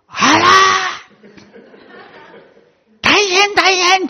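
high, slow shrieking alarm; alarmed teacher. Retold or imitated. Startled kindergarten teacher rushing inside, shrieking in alarm. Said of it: "って言って".

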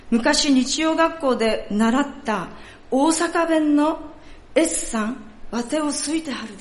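a lightly played elderly woman in Kansai dialect; Kansai accent. Pastor voicing the old woman asking about her hearing, in a Kansai accent. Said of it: "ちょっとここから関西弁になりますので".

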